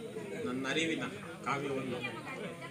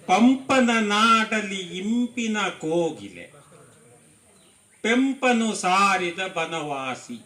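higher, louder lilting verse recitation; poetry recitation; 9 semitones higher, 12 dB louder, slower than usual. Acted. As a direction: recite it rhythmically to the hall, drawing out the vowels. Recites own poem to audience. (ಲಯಬದ್ಧ ಕವನ ವಾಚನ)

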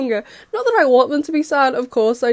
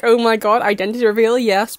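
excited; 3 dB louder than usual. Retold or imitated. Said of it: "but more of the excited version".

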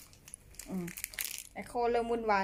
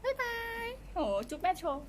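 put-on much higher cutesy baby voice; baby pet voice; 13 semitones higher than usual. Owner voicing the pet saying goodbye, high baby voice. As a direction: speak for the pet like a tiny child.

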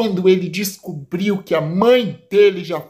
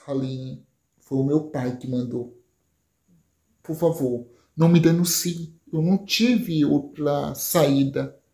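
low, soft pleading plea; pleading Caio; 4 semitones lower, 4 dB quieter than usual. Acted. Caio begging Aline to keep quiet, low and soft. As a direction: beg her quietly not to tell.

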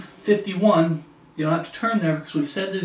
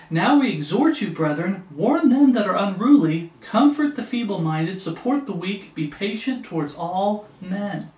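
scripture reading; 2 semitones higher than usual. Acted. Preacher reads an exhortation to the brethren, emphatic scripture reading. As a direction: proclaim the verse with punched key words.

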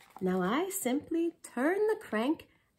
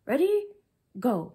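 loud starting call; 6 dB louder than usual. Acted. Inventor starts the race.

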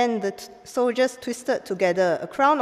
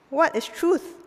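scornful question; 8 semitones higher than usual. Acted.

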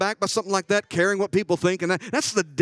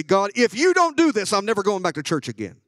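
higher, louder, petulant demand; a hint of a whiny ultimatum to God; mock blackmail prayer; 4 semitones higher, 4 dB louder than usual. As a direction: threaten God like a sulking child. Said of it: "the blackmail prayer is when you say".

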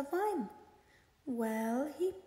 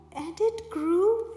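and it grew, bigger and louder; louder, building; 3 semitones higher, 8 dB louder, slower than usual. A narrator's reading. Second repetition, louder.

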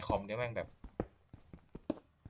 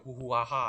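hooting cave noise mimicry; voiced hoo-hoo ah-ha cave sounds; cave sound imitation; 2 semitones higher, 4 dB louder than usual. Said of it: "คือเสียงมันแบบ".

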